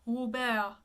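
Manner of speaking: Robert as ro-BEHR with an open eh. Shown as a demonstration. Coach showing the open vowel to singers. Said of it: "open, eh".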